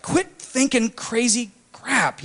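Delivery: high, slow scolding of himself; stern self-command. Retold or imitated. Student walking to class, scolding himself to stop. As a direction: tell your own brain to knock it off. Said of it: "where I was like".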